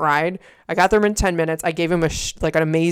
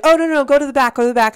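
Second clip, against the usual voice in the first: tag; 8 semitones higher, 6 dB louder, faster than usual. Retold or imitated. Others directing bride, quoted.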